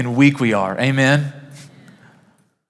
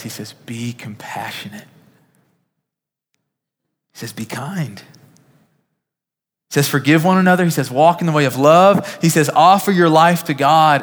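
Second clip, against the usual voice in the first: whisper building to a shout; 2 semitones higher than usual. Acted. Pastor quoting Paul's commands to his church, whisper swelling to a shout. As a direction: start in a whisper and build each command until it rings out.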